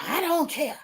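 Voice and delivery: put-on dismissive voice; mock sass. YouTuber mimicking Necrosis stirring the pot, mock sass. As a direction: mimic someone brushing it off with attitude.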